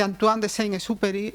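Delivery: name said with a French accent. Shown as a demonstration. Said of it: "disculpad mi terrible acento francés".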